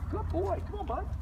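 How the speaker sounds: high, light praise and call. Real, not acted. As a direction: cheer the dog on lightly. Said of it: "I keep my voice light like this".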